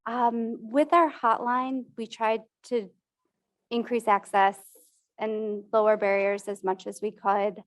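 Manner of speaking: muffled behind a mask; through a face mask. Real, not acted. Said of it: "talking through a mask".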